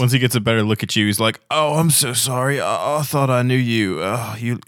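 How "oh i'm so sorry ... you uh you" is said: confused, wavering character voice; apologetic Pavilion. Acted. Pavilion thinks he mistook a stranger, confused and sorry. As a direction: apologize haltingly, in a swooping voice.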